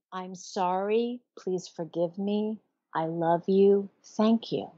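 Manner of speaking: gentle prayer. Shown as a demonstration. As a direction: recite it slowly and tenderly, like a prayer. Reciting the Hawaiian prayer.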